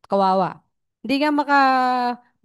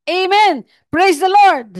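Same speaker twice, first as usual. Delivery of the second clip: loud, high shout of praise; joyful exclamation; 8 semitones higher, 9 dB louder, much slower than usual. Real, not acted. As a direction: call it out to the whole church. Congregation-style exclamation. (malakas at masayang sigaw ng papuri)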